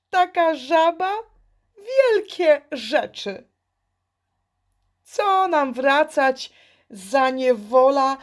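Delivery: put-on high, dismissive children's voices; scoffing children. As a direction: brush off the frog's warning. (lekceważące dziecięce głosy)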